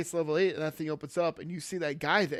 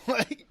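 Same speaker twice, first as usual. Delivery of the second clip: hiccup giggles; 7 semitones higher, 4 dB louder than usual. Real, not acted. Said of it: "I just hiccuped and laughed at the same time".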